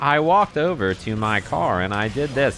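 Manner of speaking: lightly imitated TikTok narrator lady; a hint of the TikTok lady voice. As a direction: do a mock text-to-speech lady telling a story. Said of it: "the lady's just like".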